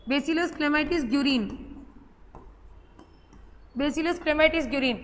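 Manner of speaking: very slow, syllable by syllable; "Bacillus clamitis guerin" stretched out; slow dictation. Shown as a demonstration. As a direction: spell it out slowly for the copy. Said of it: "full नाम देखना".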